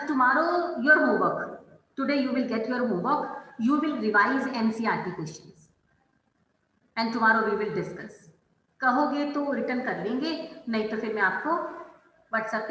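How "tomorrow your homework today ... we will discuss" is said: slow dictation. Real, not acted. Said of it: "teacher dictates homework slowly".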